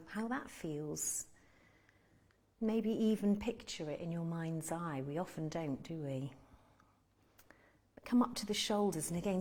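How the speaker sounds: calm meditation guide with long pauses; unhurried guiding voice, pausing to let them breathe; guided meditation. Real, not acted. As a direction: lead them gently through body and breath, leaving space between phrases.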